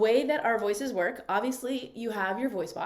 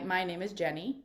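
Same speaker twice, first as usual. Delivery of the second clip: eyebrows lowered, a slightly lower, darker tone; 3 semitones lower, 4 dB quieter than usual. Shown as a demonstration. Coach demos the eyebrows-down voice to her class, lower and darker. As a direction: say it with brows down, voice dropping a little. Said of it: "speaking with your eyebrows down".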